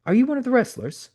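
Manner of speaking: put-on fussy old English caller turning curious; old English gentleman. A narrator's reading. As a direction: play a polite old Englishman. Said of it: "the old m-, gentleman wanted to know".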